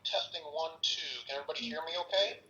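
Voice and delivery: tinny voice over a phone line; tin can phone voice. Real, not acted. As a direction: sound like a call played through a mic. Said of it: "he's gonna sound like he's in a tin can".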